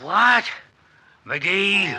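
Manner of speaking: sharp, high, loud double take; outraged disbelief. Acted. Doc realizing McGee shot his headlights, outraged disbelief. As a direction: bark the name as it dawns on you.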